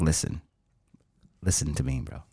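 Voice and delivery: low, quiet Armenian tough-guy voice; imitating an Armenian customer; Armenian accent. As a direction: lean in with a thick Armenian accent. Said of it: "I should go with the Armenian".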